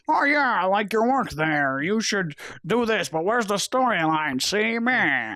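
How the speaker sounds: exaggerated mock studio-boss voice; big head honcho. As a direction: play the honcho, swinging up and down in pitch. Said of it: "the big head honcho guy".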